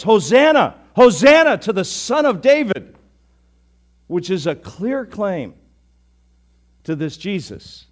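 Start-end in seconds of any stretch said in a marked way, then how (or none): 0.0-3.0 loud, high joyful shout of Hosanna; children shouting. Acted. Preacher voicing children praising Jesus in the temple, shouting. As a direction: cry it out like a crowd of children.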